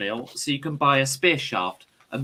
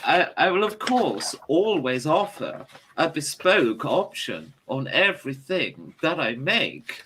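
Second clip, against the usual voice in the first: posh shopkeeper; 3 semitones higher than usual. Acted. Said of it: "says Vennonia".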